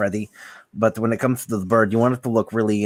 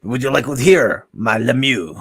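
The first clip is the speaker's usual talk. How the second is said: mock French accent; 5 dB louder than usual. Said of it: "then you can say".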